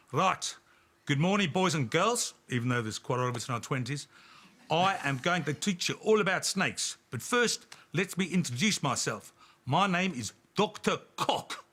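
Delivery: lightly done South African doctor voice; a hint of South African accent. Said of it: "it's gonna be a South African accent".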